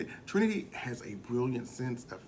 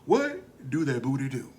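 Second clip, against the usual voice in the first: teasing, laughing and louder; laughing question; 6 dB louder than usual. Retold or imitated. Shay teasing Monet, laughing loudly. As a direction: ask it through a laugh. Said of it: "Shay asks".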